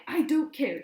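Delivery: high, very loud scream. A narrator's reading. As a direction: cut him off screaming. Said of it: "she screamed".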